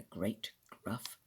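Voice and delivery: low, soft growling narration; gruff growl. A narrator's reading. Narrator describes Father Bear's voice, low and gruff. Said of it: "growling voice".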